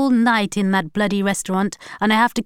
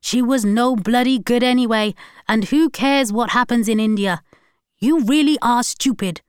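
loud, higher, scornful voice; angry rant; 5 semitones higher, 5 dB louder than usual. A narrator's reading. Husband scorning his wife's tears, angry. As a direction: pour contempt on her grief.

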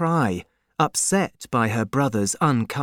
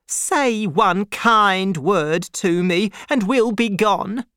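high-pitched, upset appeal; pleading; 7 semitones higher, 3 dB louder than usual. A narrator's reading. Miss Pross begs her brother for one kind word, pleading. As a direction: beg for it in a raised pitch.

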